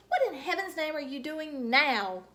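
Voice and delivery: put-on fed up with the kid; grouched. Grouchy lady turning round on Junie B, exasperated. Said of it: "she grouched".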